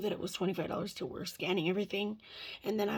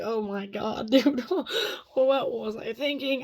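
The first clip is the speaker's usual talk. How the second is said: exasperated; 6 dB louder, slower than usual. Retold or imitated. Exasperated retold outburst.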